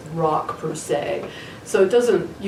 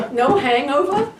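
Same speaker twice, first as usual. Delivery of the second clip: put-on laughing New Jersey accent; imitating a Jersey accent while laughing; 6 semitones higher, 5 dB louder than usual. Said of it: "You sounded like you're from New Jersey".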